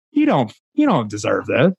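mildly mocking, put a challenge into the questions; needling self-doubt, lightly acted; inner hater voice. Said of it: "that little hater voice".

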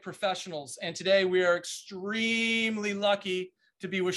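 upbeat host voice opening the show; podcast host intro. Acted. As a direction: announce the episode like a show host. Host opens the podcast episode.

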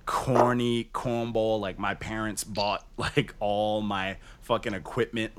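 slow, drawn-out mocking tone; mock corny Hollywood. Mocking the kid who messaged, slow mock-corny tone. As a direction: drag it out like a corny rich kid. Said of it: "on some super duper, like, I am Hollywood, corny cornball".

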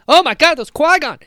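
building thrilled realization; excited disbelief. Retold or imitated. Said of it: "and I was like".

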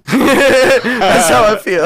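high-pitched, drawn-out laughing delivery. Real, not acted. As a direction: say it through a big laugh. Laughs after a blurted curse.

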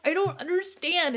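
high-pitched mock upset voice; really upset. Girlfriend complaining to her boyfriend before her period, mock upset. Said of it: "I'll be really upset".

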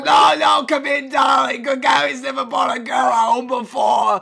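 high, shouted auntie voice; gushing auntie, insistent. Acted. Auntie insisting the girl come in, loud gushing voice. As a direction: loudly usher them in, pitched high.

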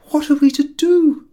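high, loud despairing cry; desperate cry. A narrator's reading. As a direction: cry out helplessly. Panicked wife in a mix-up.

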